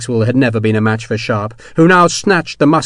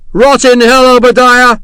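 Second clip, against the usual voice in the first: much higher and louder, called downward; loud curse; 12 semitones higher, 9 dB louder than usual. Acted. Sharp calling down to Hexwell before walking away. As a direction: fling the curse down at him. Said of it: "Sharp called down".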